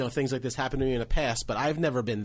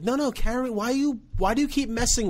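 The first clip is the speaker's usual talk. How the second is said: whiny heckler; 12 semitones higher than usual. Retold or imitated. Audience members complaining to comic.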